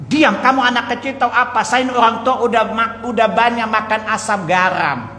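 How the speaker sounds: retold telling-off from an older man; offended elder. Older man silencing a youngster who advised him, mildly indignant.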